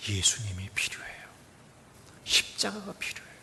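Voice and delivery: soft whispered declaration. Real, not acted. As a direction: hush the answer. Whispered climax. (속삭이며 고백하듯)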